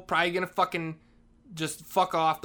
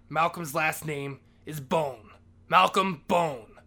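dramatic reveal; slower than usual. Real, not acted. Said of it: "dramatic reveal of the name".

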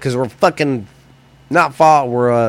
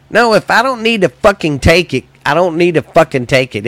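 heated outburst; 6 semitones higher than usual. Real, not acted. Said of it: "Sorry if I'm getting emotional".

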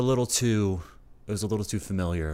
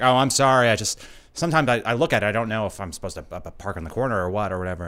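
mock-nervous driver, faster and apologetic; nervous chatty driver; 2 semitones higher, 7 dB louder, faster than usual. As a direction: lightly play the nervous driver rushing his apologies. Voicing nervous chatty Uber driver.

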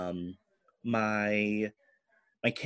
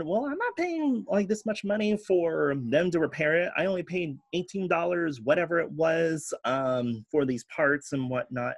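high mock voice of others; 5 semitones higher than usual. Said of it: "but they said".

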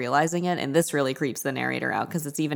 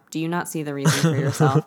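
"Do you not see the reason for yourself?" said as a statement; no question mark. Shown as a demonstration. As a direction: end "yourself" like a full stop, without a questioning lift. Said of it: "no question mark".

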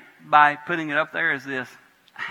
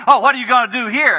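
mocking challengers; 9 semitones higher, 11 dB louder than usual. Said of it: "what they".

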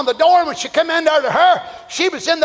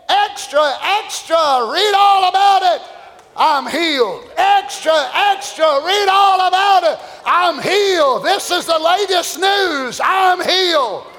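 newsboy calling; 3 semitones higher than usual. Acted. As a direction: cry it out like a paper boy. Newsboy calling out healing news.

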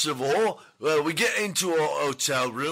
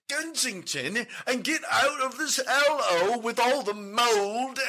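higher, pleading cry to go home; hammed-up pleading shout; 5 semitones higher than usual.

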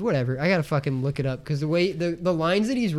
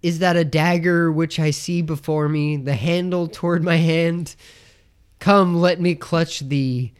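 measured Shakespearean line reading, lightly dramatic; mild theatrical recitation. Retold or imitated. Dude in the film reciting Macbeth, understated theatrical recitation. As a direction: recite it as verse, drawing out the ending. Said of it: "he's reciting Macbeth".

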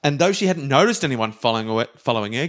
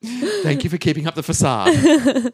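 high, slow, laughing through it; laughing thanks; 10 semitones higher, slower than usual. Acted. Nancy thanking the shopkeeper, laughing. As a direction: giggle out the thanks.

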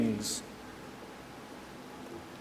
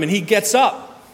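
climbing high and louder to the city; preacher's triumphant climb; rising excitement; 10 semitones higher, 5 dB louder than usual. Acted. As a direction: build it up till the city rings out. Preacher climaxes Paul story.

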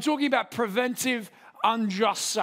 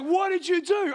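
high-pitched, acted-out outrage; mock accusing wife; 9 semitones higher than usual. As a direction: imitate a wife demanding an explanation. Wife's alarmed accusation in retold quarrel.

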